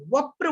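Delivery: वप्र with the प pulled back onto व, "vap-pra"; joined conjunct. Shown as a demonstration. Teacher showing pupils Sanskrit reading, joined वप्र as vap-pra. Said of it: "जोड़ करके पढ़ना है".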